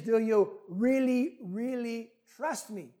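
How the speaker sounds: slow, drawn-out question; lightly voiced patient heavenly voice; voice from above. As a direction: press the question slowly and deliberately. Voice from above presses tourist.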